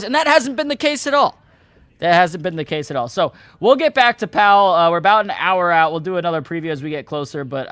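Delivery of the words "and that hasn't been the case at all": high-pitched, insistent dismissal; emphatic rebuttal. Real, not acted. Host rebutting investors' predictions, emphatic and high. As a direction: push it up high, as if amazed anyone thought so.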